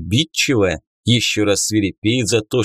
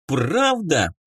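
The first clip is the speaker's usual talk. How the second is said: put-on bubbly sorority girl; 6 semitones higher than usual. A narrator's reading. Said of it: "завизжала от радости эльфийка".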